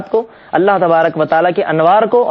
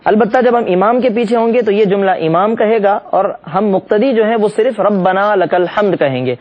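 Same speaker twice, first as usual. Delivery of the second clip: usual speaking voice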